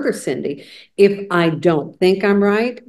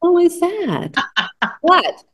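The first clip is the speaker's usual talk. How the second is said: mock surprise; 10 semitones higher, slower than usual. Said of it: "and I go".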